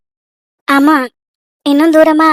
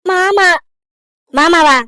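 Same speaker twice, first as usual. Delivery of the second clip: name the culprit through tears; tearful; 2 semitones higher, much slower than usual. Acted. Crying girl telling her aunt who upset her, tearful. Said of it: "எதுக்கு அழுவுற?".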